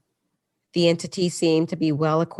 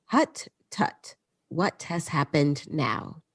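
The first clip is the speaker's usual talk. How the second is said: a witch mimicking a Dutch grandmother, mildly; Dutch grandmother accent; slower than usual. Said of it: "in his grandmother's accent".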